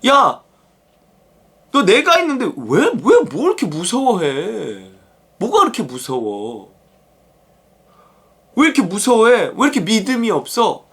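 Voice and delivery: lightly acted colloquial scolding; mock reproach from a teacher to followers; exasperated chiding. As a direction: chide them in disbelief, stretching some questions. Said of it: "예수님이 말씀하시는 거죠".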